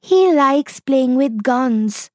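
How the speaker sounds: put-on mildly frightened little girl; scared whisper. A narrator's reading. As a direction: confide a fear, drawn out. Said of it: "whispered Shahana".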